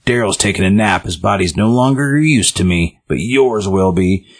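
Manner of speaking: lightly voiced nightmare killer, slowing at the end; mock menace, drawing out the last words; a hint of a possessed murderer; different, nightmarish tone. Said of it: "speaking in a different, like, tone".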